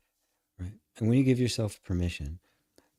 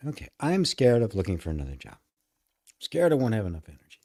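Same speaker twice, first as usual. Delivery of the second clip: owning the fear a bit louder, faster at the end; acknowledging, owning it; 3 dB louder, faster than usual. Shown as a demonstration. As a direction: say it out loud and accept it. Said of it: "I said, "Well, just look at that".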